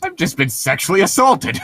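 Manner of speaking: mock victim. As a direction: play the dazed victim waking up mid-crime.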